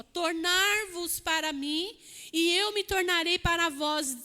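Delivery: versículo dito devagar; leitura lenta. Shown as a demonstration. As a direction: leia solene e pausado. (leitura bíblica solene e lenta)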